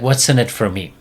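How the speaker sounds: a hint of a bratty dog asking; mildly sulky dog voice, barely put on; lightly voiced dog. Dog asks owner what it gets, lightly voiced bratty. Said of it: "The dog's like".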